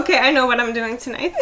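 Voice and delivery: quick words through laughter; laughing. Real, not acted. Friend joking about her plans for tonight, quick and laughing. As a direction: rattle it off fast while laughing.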